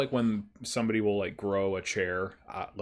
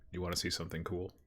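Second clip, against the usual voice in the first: softer, quick confiding aside; kinda whispering; 2 semitones lower, 6 dB quieter, faster than usual. Acted. Man kneels beside tearful boy to offer a surprise, softly confiding. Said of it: "kinda whisper, like".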